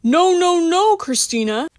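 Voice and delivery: high, loud desperate pleading; pleading protest. Acted. Bill begging Christina across the room, loud and desperate. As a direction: beg her to stop, rising in panic.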